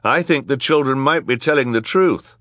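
hesitant. A narrator's reading. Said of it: "Jerome Squalor said hesitantly".

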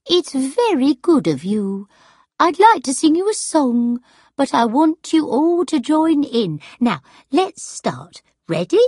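high, gracious performer addressing an audience; best voice. A narrator's reading. Sarah inviting the crowd to join in, best voice. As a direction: put on your best voice for the public. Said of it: "in her best voice".

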